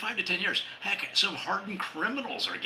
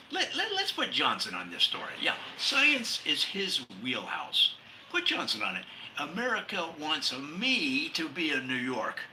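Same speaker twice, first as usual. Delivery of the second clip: an anchor squirming out of the job; panicked anchor; 4 semitones higher than usual. Acted. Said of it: "the anchor says".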